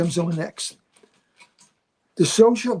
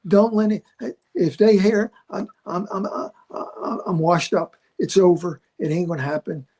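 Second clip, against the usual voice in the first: desperate prayer. Retold or imitated. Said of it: "and I'm saying".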